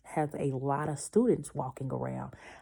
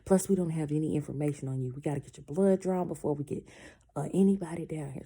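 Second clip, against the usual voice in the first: dismissive nurse; 3 dB louder, faster than usual. Retold or imitated. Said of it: "And she's like".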